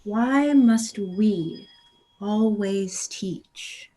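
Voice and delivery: slow, drawn-out exasperated sigh of a question; slow theatrical exasperation; weary slow lecture. Acted. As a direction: spell it out like a tired teacher.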